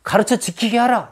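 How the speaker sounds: high-pitched, emphatic charge; challenging command. Acted. Preacher voices Jesus charging his disciples, challenging command. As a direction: hand it down as a command. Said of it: "그렇게 도전하시고".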